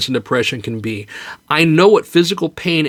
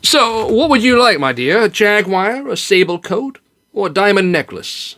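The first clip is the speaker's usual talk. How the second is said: eager generous husband; 6 semitones higher than usual. Acted. Generous husband offers gifts.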